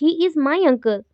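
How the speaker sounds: MY and UNCLE weighted, slow falling end; slow example sentence, "my uncle" drawn out; stress on MY and UNCLE. Shown as a demonstration. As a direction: lean on "my" and "uncle", slowly. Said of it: "एक पे कम focus कर रहे हो".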